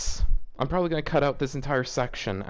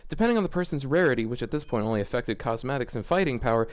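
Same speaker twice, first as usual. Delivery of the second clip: reading the fanfic aloud, lightly voiced; a touch of deadpan story narration.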